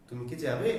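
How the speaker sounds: quick short কি, question rising on যাবে. Shown as a demonstration. Teacher showing students the short vowel, short কি. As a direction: say কি briefly, lift the end into a yes-no question. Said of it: "ছোট করে দ্রুত উচ্চারণ".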